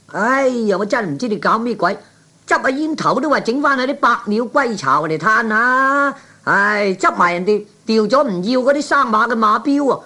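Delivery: high, exasperated nagging at him; exasperated scolding. Acted. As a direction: scold him, fed up and shrill-pitched. Wife scolds Kwan over betting slips.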